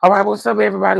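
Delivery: loud, high, hyped-up hello to the stream; big excited shout-out to viewers; hyped greeting. Real, not acted. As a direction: burst in loud and high to open the live. Hyped opening greeting of live.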